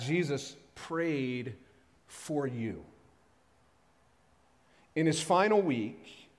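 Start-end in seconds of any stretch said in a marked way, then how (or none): 0.0-2.8 slow tender emphasis. Real, not acted.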